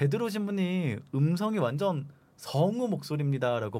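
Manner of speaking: ordinary delivery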